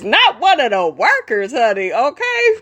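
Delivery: lightly voiced sassy church mother, with a laugh; a hint of a scolding mama, amused; Mama Joyce voice. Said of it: "in my Mama Joyce voice".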